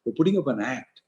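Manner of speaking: emphatic plea with a loud "please"; a touch of desperate protest; retold begging. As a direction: plead in mild storytelling fashion. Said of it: "He started begging her".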